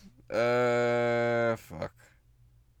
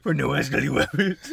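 heavy gas voice. Acted. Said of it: "You've got a deep ass voice now".

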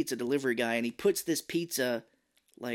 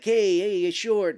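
higher, louder complaint; calling out; 7 semitones higher, 8 dB louder, slower than usual. Retold or imitated. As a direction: call the kid out. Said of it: "he was like".

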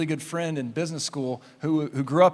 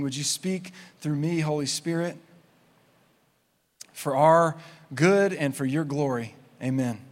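softer, measured praying with pauses; prayer; 3 dB quieter than usual. Real, not acted. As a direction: lead a congregation in quiet, sincere prayer. Leads a prayer.

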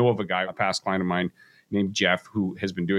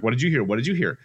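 higher-pitched excited dog voice; escalating dogs; 5 semitones higher than usual. Retold or imitated. Owner voices his dogs reacting to a noise, escalating. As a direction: mimic two dogs winding each other up. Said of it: "they just start escalating".

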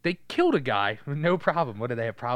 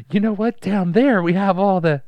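mock villain; 7 semitones higher, 10 dB louder than usual. Villain quote.

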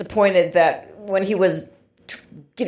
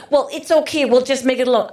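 sarcastic quote; faster than usual. Retold or imitated. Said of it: "he's so disappointed".

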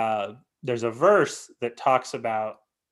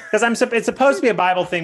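laughing; 9 semitones higher, 6 dB louder, faster than usual. Real, not acted. Laughing while explaining the joke.

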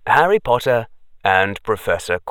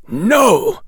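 sharp, higher, louder refusal; severe; 10 semitones higher, 5 dB louder than usual. Acted. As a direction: cut him off sternly. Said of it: "sounding rather severe".

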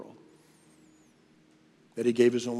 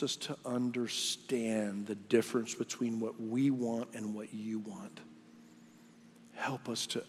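prayer. Real, not acted. Closing prayer.

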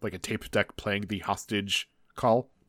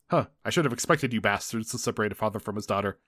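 lightly voiced rail boss, lower than usual; a hint of a different, lower voice; disguised rail boss; 3 semitones lower, 3 dB quieter than usual. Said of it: "his voice is different".

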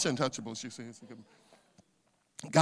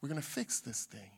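calm reassurance; 7 semitones lower, 9 dB quieter, faster than usual. Retold or imitated. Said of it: "he says".

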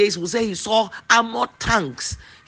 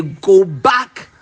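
firm, louder "Go back"; commanding rebuke; 6 dB louder than usual. Pretend. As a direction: order the worry away. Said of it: "push it by the neck and say".

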